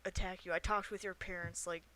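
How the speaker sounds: soft, hushed pleading; half-whispered. Acted. Player bargaining with a hidden character, half-whispering. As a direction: coax them quietly out of hiding. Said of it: "I'll kinda whisper".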